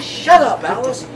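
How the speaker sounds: high, loud bark of "Shut up"; snapping husband. Retold or imitated. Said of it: "He says".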